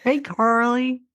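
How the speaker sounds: put-on light US Southern accent; a hint of a Southern drawl. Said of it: "like, U S Southern accent".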